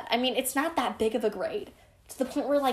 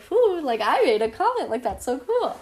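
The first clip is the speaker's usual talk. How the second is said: higher, louder giddy cheer; excited; 3 semitones higher, 4 dB louder than usual. Retold or imitated. Proud of her first comment, higher giddy excitement. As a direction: gush about a tiny win. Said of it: "so excited about it".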